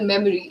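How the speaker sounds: "memory" with a weak middle vowel, mem-uh-ree; unrounded, reduced middle in "memory"; standard pronunciation. Shown as a demonstration. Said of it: "some certain words which have same speech style".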